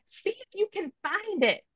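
very high, soft mock retort; imitating own yell back. Mother retelling her taunt at her son, high mock yell. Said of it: "I yelled back".

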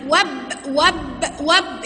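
"واب" cut off at the b; alef left silent. Shown as a demonstration. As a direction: run wa straight into b in "واب". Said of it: "ما نطقتش الألف".

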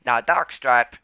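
bright apprentice cat voice; Graypaw voice. Acted.

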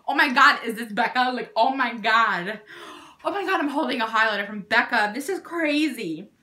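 mildly hammed-up fangirl excitement; starstruck fan. Fan meeting a superstar celebrity, mock starstruck. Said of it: "I just met, like, a superstar".

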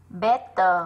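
"Better" with stress on BET and a short ơ ending; "Better" ending in a weak, unstressed schwa; short weak final vowel. Shown as a demonstration. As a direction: say "Better" slowly, leaning on the first syllable. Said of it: "là âm ơ ngắn".

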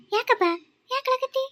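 high-pitched, drawn-out concern; concerned coaxing. Acted. Neighbour asks crying boy what's wrong, concerned coaxing. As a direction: coax a crying child to talk.

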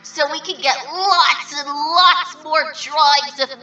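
gleeful laughing promo. Pretend. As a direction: cackle with glee as you ask. Hyping drawing challenge.

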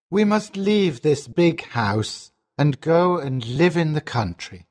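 low sorrowful voice, sinking at the end; sad father. A narrator's reading. Father moving his family to the country, sadly. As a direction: let the pitch sink with the sad news. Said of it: "he says sadly".

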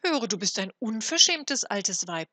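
put-on loud, cross little boy calling out; indignant shout. A narrator's reading. Boy scolding the rude old woman, indignant shout. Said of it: "rief er unmutig".

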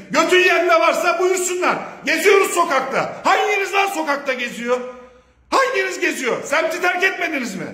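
real furious threat; angry challenge. Real, not acted. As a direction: bark the challenge up high. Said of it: "biraz sinirlendim".

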